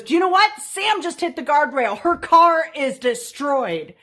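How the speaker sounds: high, loud gleeful tattle; tattling sister. Retold or imitated. Sister tattling to mom and dad, gleeful and loud. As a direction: blurt it out eager to get her in trouble. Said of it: "and said to Mom and Dad when we pulled in and goes".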